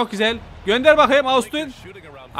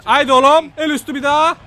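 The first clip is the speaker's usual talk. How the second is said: excited urging; 5 semitones higher, 6 dB louder than usual. Real, not acted. Urging players in basketball game.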